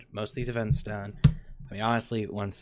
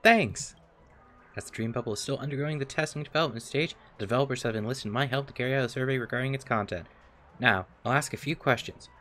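smooth salesman voice; 3 semitones higher, 4 dB louder, faster than usual. Acted. Reads NPC dialogue.

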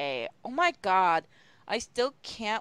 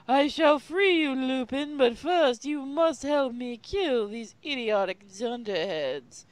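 hammed-up sneering villain, higher and louder; cruel villain; 5 semitones higher, 3 dB louder than usual. Snape taunting Lupin from a flying car, cruel. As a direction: play the cold cruel captor, slow. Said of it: "he said cruelly".

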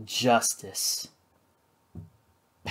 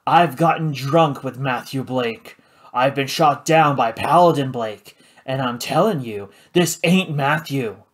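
gruff insistence; 3 dB louder than usual. Acted. The judge to Karina, insisting angrily. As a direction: hammer each claim home.

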